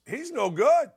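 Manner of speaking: usual speaking voice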